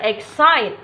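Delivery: "excite" falling on a stressed CITE; stress on second syllable. Shown as a demonstration. Teacher repeating the example for viewers, exCITE stressed at the end. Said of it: "stress on second syllable".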